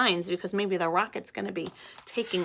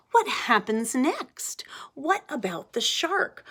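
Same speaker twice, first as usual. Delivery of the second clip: eager whisper; 4 semitones higher than usual. Acted. Teacher voices eager Mrs Singh.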